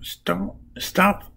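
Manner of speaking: lightly acted scolding shout; mock shouting. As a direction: imitate shouting at bumbling allies, without full volume. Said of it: "Starts shouting at them".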